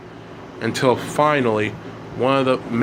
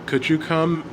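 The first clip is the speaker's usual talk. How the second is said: lightly voiced father, higher pitch; raised, polite parental request; father asking; 6 semitones higher than usual. A narrator's reading. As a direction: ask it as a parent calling a child over. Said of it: "his father asked him".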